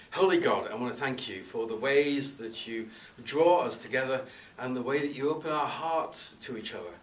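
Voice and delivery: measured, reverent prayer voice, unhurried; opening prayer. Acted. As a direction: pray over the congregation before the homilies. Leads the congregation in prayer.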